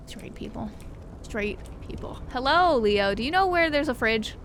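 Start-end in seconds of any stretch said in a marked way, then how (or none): 0.1-0.7 soft unvoiced sigh of exasperation; whispered jab at straight people; whispered aside. Real, not acted. 1.2-2.2 soft unvoiced muttered repeat; whispered jab repeated; whispered aside again. Real, not acted.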